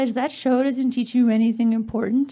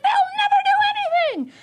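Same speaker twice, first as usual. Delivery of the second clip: high, sneering Santa voice; mocking Santa. Santa dismissing the penguins in a high sneer. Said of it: "He's like".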